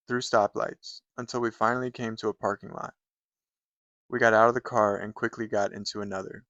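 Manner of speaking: understated narrative poem read aloud. Acted. Reviewer reads captive's story to viewers, understated poem reading. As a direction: read it matter-of-factly, pausing between sentences.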